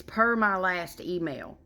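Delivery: slow, pointed office politeness; passive-aggressive. Retold or imitated. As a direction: spell it out with icy courtesy. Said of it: "the work job equivalent".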